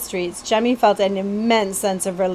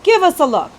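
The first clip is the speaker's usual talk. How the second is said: high, louder coaxing voice; Betsy character voice; 8 semitones higher, 5 dB louder, faster than usual. Acted. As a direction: coax him to show the wound.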